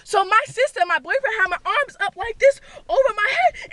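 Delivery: usual speaking voice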